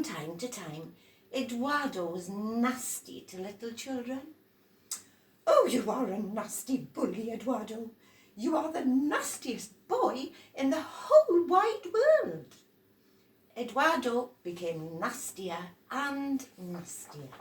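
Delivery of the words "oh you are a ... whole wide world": loud, high scolding adult voice; scolding grown-up. Acted. Adults scolding noisy Eduardo, loud high scold.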